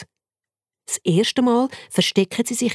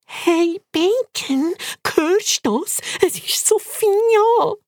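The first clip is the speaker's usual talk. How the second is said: much higher, slow, thrilled squeaking; excited squeak; 13 semitones higher, much slower than usual. Acted. Turbo tells Bacon Sophia is here, thrilled. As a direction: squeal with joy.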